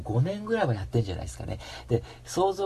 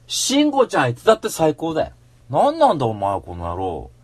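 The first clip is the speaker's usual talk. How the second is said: louder, fired-up defense; heated rant; 2 semitones higher, 6 dB louder than usual. Real, not acted. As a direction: keep pushing the outrage. Angry rant about an article.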